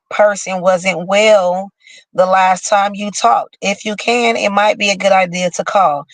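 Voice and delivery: slow, careful read-aloud voice; horoscope reading. Acted. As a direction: read the horoscope text out deliberately. Reads the Gemini horoscope aloud.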